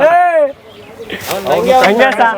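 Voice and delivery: high-pitched commanding shout; calling out. Real, not acted. Bull's handler checks his animal, shouting out.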